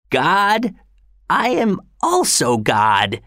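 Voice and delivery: put-on high, slow dying old man; old father voice. A narrator's reading. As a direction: voice the frail father, rising.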